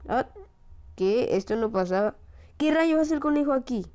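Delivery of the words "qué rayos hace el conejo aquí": higher and louder disbelief; shocked outburst. Real, not acted. Gamer startled to find the rabbit there. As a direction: blurt it out startled.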